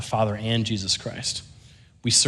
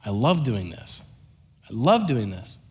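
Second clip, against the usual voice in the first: lowered, tender dad voice; gentle reassurance; 3 semitones lower than usual. Retold or imitated. Dad reassures son on the drive home, gentle. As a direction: soothe an apologizing child, lower.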